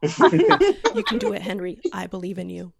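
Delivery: mock encouragement. Fan telling Henry to save America, encouraging. Pep talk dropping to earnest belief.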